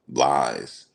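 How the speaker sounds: low, drawn-out dismissive lies; diva brush-off. Retold or imitated. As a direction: imitate him waving it off like a diva. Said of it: "What is he, a diva?".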